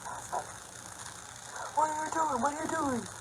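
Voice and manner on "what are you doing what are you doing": high-pitched imitation yell, volume held back; squeezed-up high mock scream. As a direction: mimic a screaming husband without the volume. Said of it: "My husband starts screaming at me".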